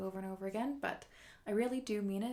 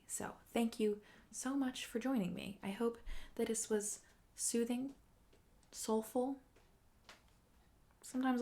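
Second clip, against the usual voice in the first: whisper; 2 semitones higher than usual. Acted. Streamer whispering thanks to viewers for joining. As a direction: whisper a quick, intimate thank you.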